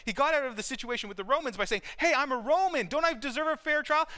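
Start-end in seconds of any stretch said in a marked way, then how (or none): 2.0-4.1 mild begging. Retold or imitated. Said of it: "Now he's begging".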